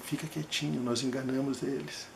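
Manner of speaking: soft secretive tone to the patient; close and quiet. Retold or imitated. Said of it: "bem pertinho dele".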